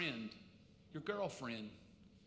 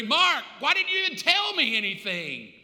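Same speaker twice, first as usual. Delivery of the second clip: reproachful cry; 4 semitones higher, 5 dB louder than usual. Acted. Dead brother Gary reproaching.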